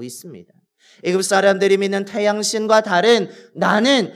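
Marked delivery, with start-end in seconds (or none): 3.5-4.1 God's declaration. Retold or imitated. God declaring his name to Moses, slow loud proclamation. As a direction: proclaim it with full authority. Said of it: "고백하며".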